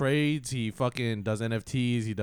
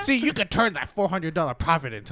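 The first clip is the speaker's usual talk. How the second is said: louder, higher salesman voice; hustle guru impression; 4 semitones higher, 3 dB louder than usual. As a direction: pitch it like a hype guru. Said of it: "How much money do you make?".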